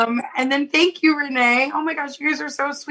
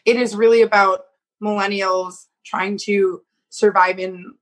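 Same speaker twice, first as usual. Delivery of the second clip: ordinary talk, nothing marked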